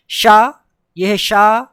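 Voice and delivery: शा as a loud, clear "sha"; SH sound. Shown as a demonstration. Teacher contrasting three letters, loud SH. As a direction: punch शा with a hushing sh. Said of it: "ये तीनों difference".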